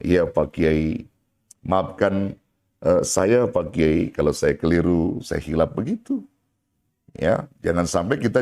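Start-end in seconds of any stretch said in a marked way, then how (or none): 0.0-5.8 humble apology. Acted. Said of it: "Jadi panggil dia sebutan kehormatannya".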